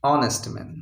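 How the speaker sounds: "ऑनेस्ट man" starting on the o vowel, no h; "ऑनेस्ट man" with an open o, h dropped; silent h in honest. Shown as a demonstration. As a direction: say "ऑनेस्ट" as onest. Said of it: "हम बोल रहे हैं".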